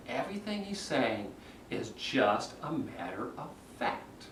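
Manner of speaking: soft, smooth and understated; calm, matter-of-fact. Shown as a demonstration. Coach showing a candidate's smooth answer, calm and matter-of-fact. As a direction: let it sink quietly to the end.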